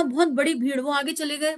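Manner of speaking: normal talking voice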